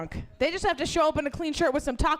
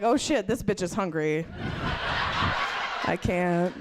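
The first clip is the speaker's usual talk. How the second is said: much lower mock cop voice; gruff cop; 4 semitones lower than usual. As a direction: drop low like an unimpressed cop. Cop voiced in retold story.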